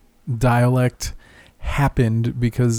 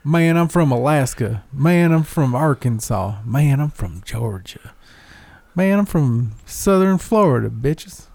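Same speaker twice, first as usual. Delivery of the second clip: mock American twang. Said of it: "That accent is everywhere".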